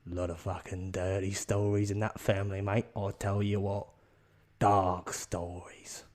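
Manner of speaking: grave mock confiding, slowing at the end; hint darkly at family secrets; ominous. The speaker hints at dark family secrets.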